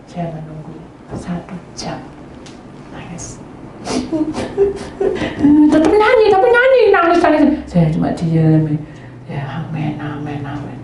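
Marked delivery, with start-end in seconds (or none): 3.9-7.4 excited high exclamation. Real, not acted. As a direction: blurt it out, amazed. Excited telling of the girl crying.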